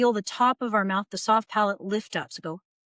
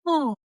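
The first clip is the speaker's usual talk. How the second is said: short, high-starting yawn-like "oh"; yawny "oh"; 6 semitones higher, 3 dB louder than usual. Shown as a demonstration. Coach recapping tongue practice, a brief yawning "oh". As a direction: drop the back of the tongue on a quick oh. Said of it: "practice dropping the back of your tongue".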